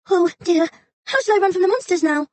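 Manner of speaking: high, mock-anxious little fox; fretting fox. A narrator's reading. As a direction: wring your paws, play pitiful. Fox frets.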